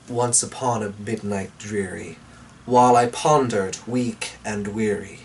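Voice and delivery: low, hushed poem recitation; dramatic reading. Acted. Reading Poe aloud to viewers, low and dramatic. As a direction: read it like a candlelit ghost story. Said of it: "a dramatic reading".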